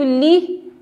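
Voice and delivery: LI drawn out, mouth nearly closed; narrow li. Shown as a demonstration. Teacher pointing out the li sound, slow demonstration. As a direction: hold a careful narrow LI. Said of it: "não abre muito a boquinha".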